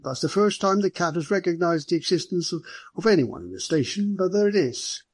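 a hint of a genial officer, surprised; superintendent's voice. Superintendent remarking to his visitors about the cat, lightly amused.

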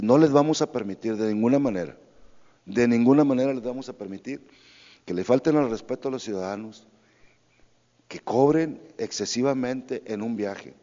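loud, forceful official warning; firm, insistent public declaration; emphatic warning. Real, not acted. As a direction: lay down the law, raising your voice on the key words. Official firmly warning taxi drivers.

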